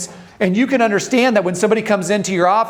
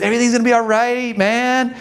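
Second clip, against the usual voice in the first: easy, mock Jamaican accent, a bit quick; Jamaican laid-back; 3 semitones higher than usual. Calming panicked partner with a light Jamaican accent. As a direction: play a chilled-out Jamaican. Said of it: "my demeanor changed to, like, that of a Jamaican".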